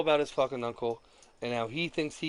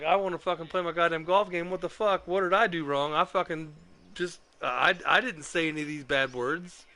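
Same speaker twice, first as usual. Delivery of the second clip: higher and a bit louder, venting at the unfair ban; exasperated rant; 4 semitones higher, 4 dB louder than usual. Retold or imitated. Retelling his late-night outburst after being banned, exasperated. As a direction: let the indignation spill out in a retold complaint.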